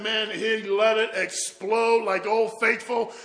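loud, high, slow-stretched delivery; excited. Retold or imitated. Brother recalling his joyful outburst, loud excitement. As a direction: belt it out with bursting joy. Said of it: "He said he got so excited".

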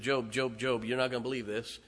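fast, urgent messenger bursting in; a hurried mock-panicked messenger; breathless rush. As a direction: blurt it out in a rush. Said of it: "another come racing in".

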